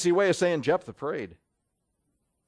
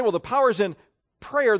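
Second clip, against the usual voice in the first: "power" and "prayer" leaned on as if they held the magic; emphasis on the words; 5 semitones higher, 4 dB louder than usual. Shown as a demonstration. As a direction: hit "power" and "prayer" like an incantation. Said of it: "I've put the emphasis on the words".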